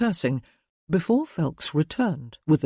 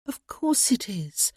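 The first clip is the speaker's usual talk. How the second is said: whisper; 6 semitones higher, 3 dB quieter than usual. A narrator's reading. Cecilia soothes softly.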